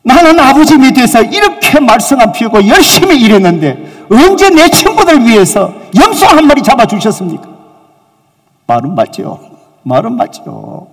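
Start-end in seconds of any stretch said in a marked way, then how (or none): 0.0-7.5 higher, louder indignant complaint; the wronged son snapping back at his father; aggrieved son raising his voice; elder son protesting. Acted. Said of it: "팍 따지는 거예요".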